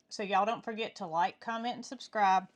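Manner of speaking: talking through a mouthful of cheesecake; words round a big bite; mouth full. Real, not acted. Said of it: "while I'm talking with my mouth full".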